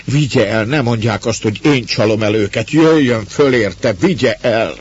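loud, high-pitched frantic plea; panting urgency. A narrator's reading. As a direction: beg desperately, as if out of breath.

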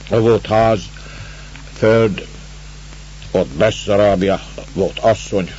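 lightly voiced weary Russian stranger; halting, tired, a hint of despair; broken-Hungarian Russian. The stranger tells the master why he lay on the road, halting.

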